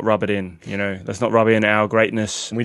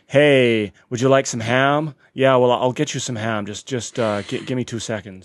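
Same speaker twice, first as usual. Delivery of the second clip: imitated American deli worker accent. Deli worker offering customers ham, mock American accent. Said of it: "in an American accent".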